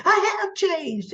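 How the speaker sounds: snapping. Retold or imitated. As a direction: bite back defensively, in a retold imitation. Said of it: "Tucker snapped".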